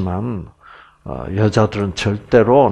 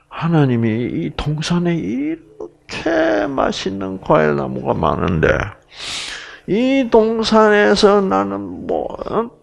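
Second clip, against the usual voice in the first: put-on sly serpent in Gyeongsang accent; 6 semitones higher than usual. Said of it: "경상도 사투리로 제가 각색을 할게요".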